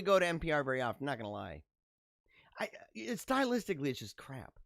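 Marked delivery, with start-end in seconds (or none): 2.6-4.6 whispered aside; conspiratorial whisper about NPR. Real, not acted. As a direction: drop to a whisper for the jab. Aside about NPR's style.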